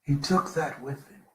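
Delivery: repeated softly, to himself; quiet echo. Real, not acted.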